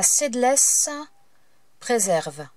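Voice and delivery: slow, halting English in a French accent. Real, not acted. Crafter reading an ink's English name, French accent. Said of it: "je suis désolée pour mon accent".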